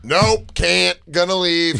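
curt exit. Retold or imitated. Host retells Kurt leaving the loud bar, mock loud brush-off. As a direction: blurt it out and walk off. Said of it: "he went".

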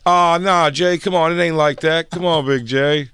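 smooth it over like a caught hustler; loud mock backpedal; backpedaling tout. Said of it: "He was like".

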